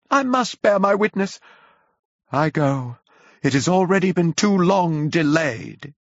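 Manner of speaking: high, loud doom-crying preacher; a madman crying woe to the city; ranting prophet of woe. A narrator's reading. Curate rushing off to preach.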